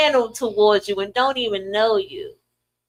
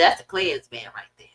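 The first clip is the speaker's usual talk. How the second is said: lightly voiced older woman; 8 semitones lower, 5 dB quieter than usual. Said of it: "She said".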